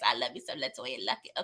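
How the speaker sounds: a hint of a dreamy fan voice; mock fan gushing. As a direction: lightly mimic a swooning fan. Mocking a fan's gushing.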